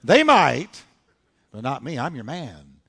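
cocky boast, hitting the first words loud; bragging. Retold or imitated. Peter setting himself above the other disciples, bragging. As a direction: boast like the one loyal man. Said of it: "look at how he bragged".

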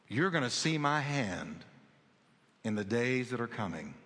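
soft, low and hushed; still small voice. Retold or imitated. Preacher repeating God's quiet promise, softly hushed. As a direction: say it like a quiet word from God. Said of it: "that still small voice".

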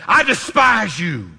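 defiant. Retold or imitated. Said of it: "I want you to say".

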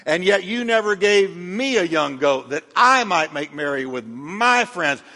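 whiny complaint. Acted. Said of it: "Listen to what he dumps on the father".

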